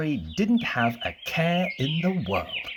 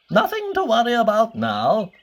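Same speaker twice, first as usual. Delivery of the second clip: higher and louder, called back while walking off; calling over his shoulder; 10 semitones higher, 4 dB louder than usual. Acted. The wizard calls back to Mister Worry as he walks away, louder and higher. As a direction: call it back over your shoulder as you leave. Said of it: "he called over his shoulder".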